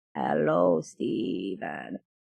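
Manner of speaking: soft, whispery, hushed space-creature alien voice. Retelling a scene where E.T. comes down and greets Steven, E.T. impression. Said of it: "My my E T impression is much better".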